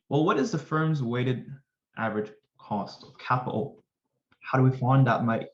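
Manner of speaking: badly faked English accent; terrible English accent. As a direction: have a half-hearted go at an English accent. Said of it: "that's a terrible English accent".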